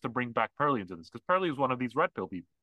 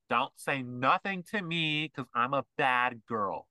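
slow, lightly voiced sassy bad girl; bad girl attitude; slower than usual. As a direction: drawl it out like a defiant boss girl. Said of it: "that's what they sound like".

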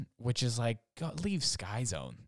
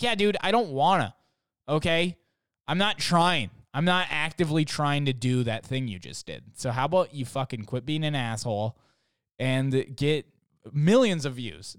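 louder, higher exasperated tirade; mock angry rant; 3 semitones higher, 4 dB louder than usual. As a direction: tell off a show-off, fed up. Ranting reply to cocky flippers.

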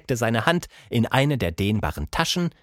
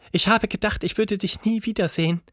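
much higher grumpy ape lady; a cranky ape, higher pitched; 11 semitones higher than usual. Acted. Plappi voice.

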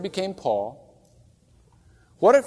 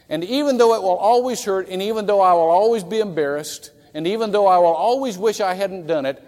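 rising resolve; 4 semitones higher, 6 dB louder than usual. Acted. Preacher builds a resolve.

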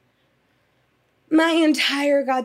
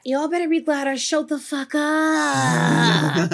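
half laughing, half crying, slow; emotional laugh-cry; laughing through tears; 4 semitones higher, slower than usual. Real, not acted. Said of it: "I'm all emotional".

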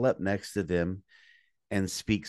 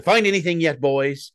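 louder, loopy line reading; punchy, overtired delivery; 6 semitones higher, 9 dB louder than usual. Retold or imitated. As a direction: deliver it slap-happy from exhaustion. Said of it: "I was so tired".

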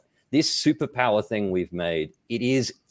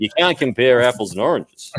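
louder mock Australian accent on the saying; hammed-up Aussie delivery, a bit louder; 2 semitones higher, 7 dB louder than usual. Shown as a demonstration. Speaker repeating a BI saying in mock Australian accent. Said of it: "only time I'm gonna do the Australian accent".

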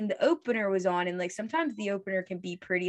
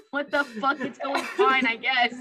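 deadpan reply; 4 semitones higher, 3 dB louder than usual. Retold or imitated. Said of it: "And I was like".

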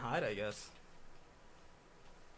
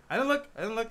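very high-pitched playful denial; mock innocence; 8 semitones higher, 4 dB louder than usual. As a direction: squeak out a pretend plea of innocence. Joins in pretend denial of cheating.

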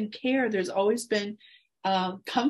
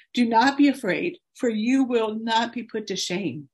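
emotional scripture reading. Real, not acted. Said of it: "I'm probably gonna get emotional".

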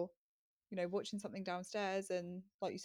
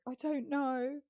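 put-on whiny child; 7 semitones higher, slower than usual. Toddler's answer voiced.

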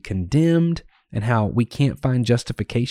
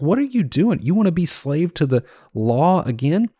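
mild, higher-pitched challenge, imitating an exasperated apostle; incredulous rebuke; 5 semitones higher than usual. Paul challenging the Galatians on returning to slavery, mock incredulous. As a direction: put a touch of disbelief into the questions.

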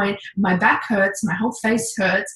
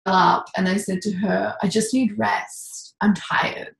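tearful, slow and hushed; welling up. Retold or imitated. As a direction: voice close to tears, barely holding it. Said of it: "I started to well up".

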